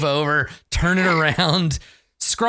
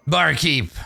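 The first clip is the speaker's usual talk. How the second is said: mildly blustering pirate; loud blaggart. Acted. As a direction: call to the barkeep with light bluster. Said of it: "he likes being loud".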